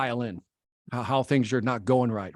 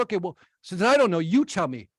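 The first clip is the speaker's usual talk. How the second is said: fast, higher, irritated retort; 5 semitones higher than usual. Retold or imitated. Victor losing patience with the guru: fast, irritated comeback. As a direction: snap back, fed up, a touch of anger. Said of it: "finally I get irritated".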